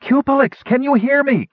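high-pitched call across a great distance; hailing through cupped hands. A narrator's reading. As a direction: call out urgently to someone far off. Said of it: "Kitiara called through cupped hands".

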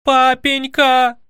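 long, high, loud cry for father; a princess yelling for her papa; shouting. A narrator's reading. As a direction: call out to her father at full voice. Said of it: "закричала".

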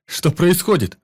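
high loud scream for help; panicked scream. A narrator's reading. Doctor as his neck twists, screaming for help. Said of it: "закричал он".

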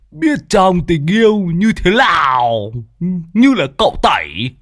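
mocking tease. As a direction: needle the old teacher cheekily. Lâm Sẹo teasing while laughing. (trêu chọc cao giọng)

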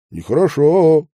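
Нехорошо as a reproachful finishing echo. A narrator's reading. Medников echoing Iliushin, reproachful нехорошо. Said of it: "укоризненно закончил он".

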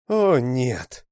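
alarmed shout; cry out. A narrator's reading. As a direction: cry out in dismay. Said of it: "крикнула она".

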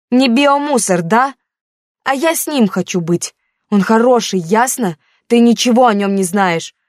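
a hurt daughter pushing back at her mother; teen daughter, defensive. Acted.

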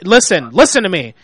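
loud, insistent. Real, not acted. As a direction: shout her down. Manager shouting over customer.

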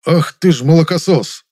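furious shouted insult; outraged cry. A narrator's reading. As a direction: explode at the upstart. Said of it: "вскричал Завадский".

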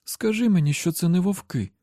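high, pleading wife's voice; hoarse demand. A narrator's reading. Wife demands husband say it's not wolves, hoarse. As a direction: pitch up, demanding an answer. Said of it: "хрипким голосом зажадала вона".

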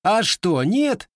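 put-on sudden high snarl at the old man; lashing out. A narrator's reading. Grandson lashes out at the gunsmith, high and sharp. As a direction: grandson flares up, voice shooting up high. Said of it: "вдруг вызверился казачок".

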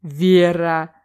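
host scolding a player who blurted out, loud and reproachful; exasperated call. Acted. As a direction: call her name out in reproach. Host scolds Vera again.

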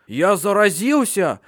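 high, slow panicked shout; panicked cry. A narrator's reading. Fatso realizes he is infected, high panicked cry. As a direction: scream out in terror. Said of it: "в панике закричал он".

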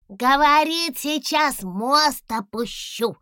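высоко и громко, радостно; радостно передать новость папе; delighted. A narrator's reading. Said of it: "обрадовался Гусли". (радостный высокий голос)

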